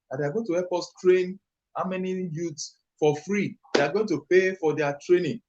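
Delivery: "train" and "pay" pushed out breathlessly; rushing until breath runs out. Real, not acted. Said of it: "Let me catch my breath".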